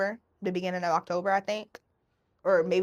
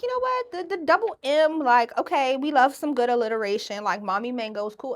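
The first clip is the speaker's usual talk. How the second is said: higher, bright approving tone; high playful voice; 4 semitones higher, 4 dB louder than usual. Retold or imitated. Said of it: "And I was like".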